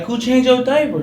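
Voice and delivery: a hint of a suspicious mom; mild mom voice.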